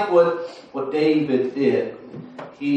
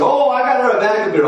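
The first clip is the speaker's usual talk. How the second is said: higher, louder, fast and pleased; proud husband; 9 semitones higher, 5 dB louder, faster than usual. Retold or imitated. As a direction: rattle it off like a husband proud of his gift. Husband brags about gift.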